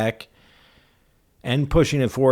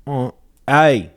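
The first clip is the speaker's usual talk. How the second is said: lightly put-on impression voice; a hint of a put-on character; offered impression; 3 semitones higher than usual. Co-host doing his own impression after his partner's, lightly voiced character. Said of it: "I'll do mine".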